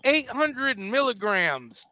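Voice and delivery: eight hundred milligrams, stretched out slowly; slow, astonished announcement; drawn-out emphasis. Real, not acted. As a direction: spell out the dosage slowly for effect. Reads dosage out in amazement.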